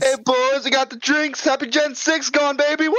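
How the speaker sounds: high, rowdy celebration yell; hyped party whoop. Pretend. Cohost cheering the end of Gen six to the boys, rowdy and hyped. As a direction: whoop it up like a tailgate party host.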